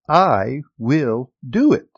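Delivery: emphatic quote with a hint of German accent; Reinhard Bonnke. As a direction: imitate a German evangelist, each word spaced out. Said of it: "in his strong German accent".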